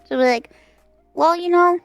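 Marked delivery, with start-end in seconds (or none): 1.1-1.8 shady mother. Retold or imitated. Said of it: "shady as fuck".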